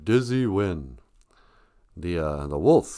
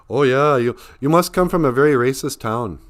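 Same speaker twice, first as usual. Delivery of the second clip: presumptuous stranger; 4 semitones higher, 6 dB louder than usual. Acted. Acting out people's assumptions.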